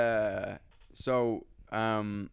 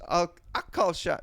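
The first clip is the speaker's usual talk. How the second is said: slightly put-on, high American auntie; slow, imitated American accent; 6 semitones higher, slower than usual. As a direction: offer help in a mock American accent. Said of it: "giving her an American accent".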